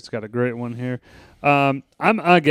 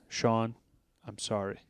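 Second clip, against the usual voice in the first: mock serious; 9 dB quieter than usual. Ed fakes a serious apology to Shaun, mock serious. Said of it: "he gets real serious".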